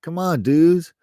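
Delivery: high, loud hammed-up tough-guy greeting; mock Russian gangster. Imitating Russian gangsters in Beijing, hammed-up and loud. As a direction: play a swaggering gangster for laughs. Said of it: "the Russians is bad news".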